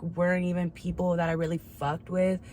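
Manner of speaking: normal talking voice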